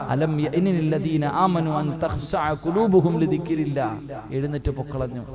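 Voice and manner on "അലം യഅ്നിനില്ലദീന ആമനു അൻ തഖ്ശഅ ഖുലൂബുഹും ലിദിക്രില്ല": slow, measured verse recital; unhurried scriptural recitation; Quran recitation. Retold or imitated. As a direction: recite the Arabic verse slowly. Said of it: "അടുത്ത വീട്ടിലിരുന്നൊരു ഉമ്മ".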